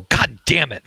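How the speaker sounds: mild acted yell of anger; sudden yell. Game master voicing Iswar yelling from downstairs, mild mock yell. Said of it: "You hear Iswar suddenly yell".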